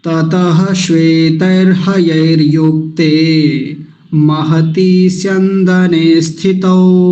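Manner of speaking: slow chanted Sanskrit verse; flowing recitation. Shown as a demonstration. Teacher reciting the verse for the class. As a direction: recite the shloka in one smooth flow. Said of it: "प्रवाह से उच्चारण कर देता हूं".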